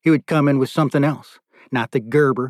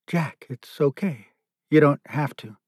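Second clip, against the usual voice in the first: gentle reassurance; 3 dB quieter than usual. Acted. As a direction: ease him down gently. Nicky comforts Jack softly.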